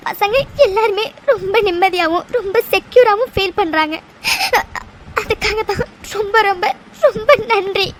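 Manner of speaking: teary, a touch of sobbing; crying while telling. Acted. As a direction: hold back tears as you explain. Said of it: "முதல்ல நீ அழாதடி".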